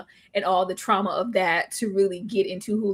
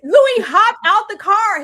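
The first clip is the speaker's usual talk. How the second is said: high, loud, laughing through the words; cry-laugh it out; high cracking laughter while telling of the bolt; 11 semitones higher, 8 dB louder than usual. Real, not acted. Laughing retelling Louis bolting.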